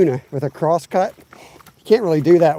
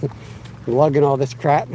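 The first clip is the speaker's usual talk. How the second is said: breathless from hauling gear; winded, catching breath. Real, not acted. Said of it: "Sorry, I'm out of breath".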